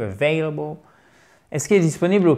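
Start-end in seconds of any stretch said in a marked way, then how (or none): 0.0-0.8 "Available" with the "vai" glide stressed; stressed diphthong. Shown as a demonstration. Teacher shows where "Available" is stressed, diphthong on "vai". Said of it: "C'est une diphtongue".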